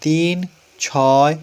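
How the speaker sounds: তিন, ছয় as separate words with a pause after each; digits said separately. Shown as a demonstration. Teacher shows pupils how to read digits after the decimal, one by one. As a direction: give তিন and ছয় each its own beat. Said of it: "প্রত্যেকটা আলাদা আলাদা করে উচ্চারণ করতে হয়".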